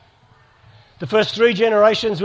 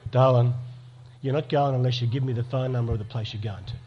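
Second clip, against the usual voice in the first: lower, firm fatherly warning; firm dad voice; 8 semitones lower, 7 dB quieter than usual. Retold or imitated. Father laying down the rule to his teenage daughter, firm and low. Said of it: "I'm gonna be the dad".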